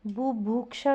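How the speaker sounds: बुभुक्षा said as "boo-bhooksha"; wrong long vowels. Shown as a demonstration. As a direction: draw out both u sounds in बुभुक्षा. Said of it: "बुभुक्षा नहीं होता". (बुभुक्षा को "बूभूक्षा" बोलते हुए)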